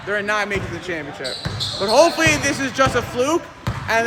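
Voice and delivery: quick, lively sports commentary calling each play. Acted. Commentator calling the game for viewers, live play-by-play. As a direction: call the game like a courtside announcer.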